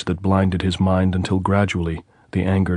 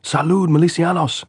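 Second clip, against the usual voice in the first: higher, louder hail to the militia; shouting; 11 semitones higher, 5 dB louder than usual. A narrator's reading. Andres hailing the militiamen on the parapet, shouting. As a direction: call up loud so they hear. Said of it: "he had shouted".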